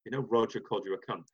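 soft fast whisper. Retold or imitated. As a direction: whisper it on the quick, stirring trouble. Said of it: "maybe just whispers".

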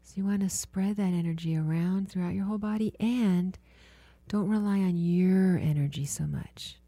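healer guiding a client through body listening, hushed and soothing; guided meditation. Acted.

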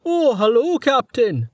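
high, surprised greeting; absent-minded scholar. A narrator's reading. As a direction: chirp it up high as if just noticing. Absorbed Roma greets his captain.

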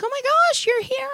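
high excited gushing; excited squeal. Retold or imitated. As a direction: gush like a surprised friend. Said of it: "they were like".

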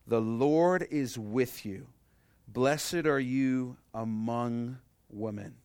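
slow and solemn, every word drawn out; the angel's blessing, read slowly to the congregation; slow, weighty scripture reading. Shown as a demonstration. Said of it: "underline these two words".

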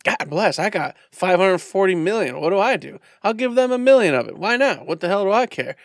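lottery winner voice. Retold or imitated. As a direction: gush like a giddy lotto winner. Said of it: "he'd be like".

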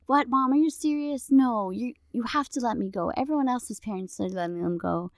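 put-on a high, incredulous teenager protesting mom; whiny teen shock. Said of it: "They're gonna be denial and shock".

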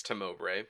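"timbre" said slowly as tuh-MO-bray. Shown as a demonstration. Cohost jokingly correcting the host, "timbre" as tuh-MO-bray. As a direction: stretch "timbre" to three syllables, tuh-MO-bray. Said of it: "I think it's".

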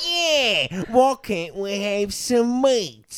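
a hungry orc whining for meat; Lord of the Rings orc. Pretend. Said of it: "It's from Lord of the Rings".

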